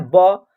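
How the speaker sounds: teacher's model "ब", consonant with a short vowel; 'buh' letter sound. Shown as a demonstration. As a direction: sound out B as "ब", dropping the pitch. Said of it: "क्या होता है?".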